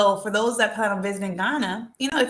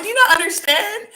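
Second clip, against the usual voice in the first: retold angry outburst; 12 semitones higher, 7 dB louder than usual. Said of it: "I'm like".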